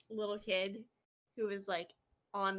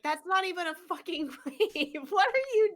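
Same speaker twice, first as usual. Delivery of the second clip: louder, much higher disbelieving yell; incredulous shout; 7 semitones higher, 9 dB louder than usual. Retold or imitated. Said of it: "And I was like".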